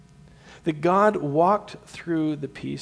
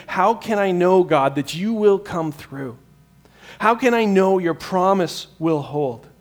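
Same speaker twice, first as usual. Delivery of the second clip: urgent cry; 4 semitones higher, 7 dB louder than usual. Retold or imitated. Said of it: "we ask that question".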